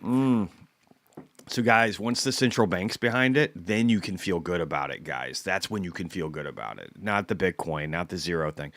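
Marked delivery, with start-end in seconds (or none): 1.5-8.7 a deliberately terrible French accent, mocking; mock Christine Lagarde lecturing investors in a bad French accent. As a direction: put on a half-baked French accent and patronise the audience. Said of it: "You like my accent? Like, worst French, French accent ever".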